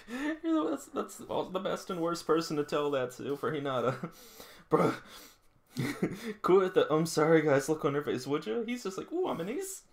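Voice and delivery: high, laughing mock of Hinata; giggling while mocking the ace; laughing commentary. Real, not acted. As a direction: tease him through laughter.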